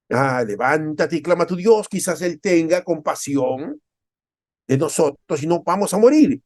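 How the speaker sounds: a desperate captain begging Jonah to call on his God; captain's urgent plea. Acted. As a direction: urge him to pray before they die.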